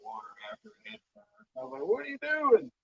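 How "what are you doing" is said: shouting. Retold or imitated. Buddy dives after the rod.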